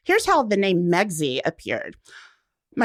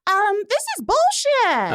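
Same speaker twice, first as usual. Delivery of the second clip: mock deadpan retort; 12 semitones higher than usual. Her blunt reply to them.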